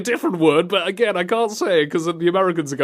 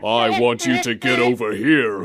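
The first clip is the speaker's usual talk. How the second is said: mock-menacing, lower register; Scorpion impression; 5 semitones lower than usual. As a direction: intone it low like a game villain. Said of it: "And Scorpion goes".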